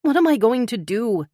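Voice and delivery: frustrated outburst; demanding. A narrator's reading. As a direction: push the question at him. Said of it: "she demanded".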